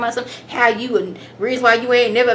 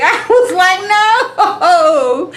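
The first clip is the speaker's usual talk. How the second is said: high, loud laughing protest; cracking up in disbelief at what Grandma said; 8 semitones higher, 6 dB louder, much slower than usual. Real, not acted. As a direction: squeal it out through real laughter.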